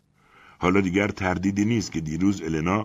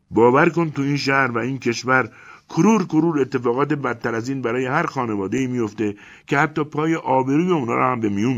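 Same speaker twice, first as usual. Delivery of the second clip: louder, urgent persuasion; earnest pleading; 9 semitones higher, 5 dB louder than usual. Acted. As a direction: narrator urges Elena to keep family together, pleading. Narrator pleads with Elena.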